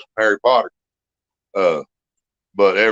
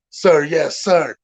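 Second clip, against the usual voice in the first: higher shouted recruit reply; recruit shouting; 6 semitones higher, much slower than usual. Retold or imitated. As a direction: snap back like a scared private. Recruit answering drill sergeant.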